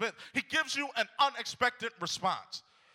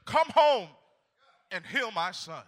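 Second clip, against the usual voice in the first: desperate plea. Acted. Desperate father begging Jesus.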